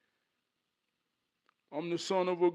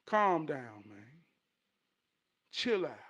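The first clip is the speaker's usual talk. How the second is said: calming self-talk; slower than usual. Acted. His inner self talking him down, calming. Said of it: "myself will say".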